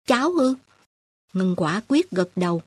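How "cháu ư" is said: a higher, surprised little question. A narrator's reading. Aunt Nhàn surprised at the girl's offer, higher surprised question. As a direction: catch her off guard, genuinely surprised. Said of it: "Cô Nhàn ngạc nhiên".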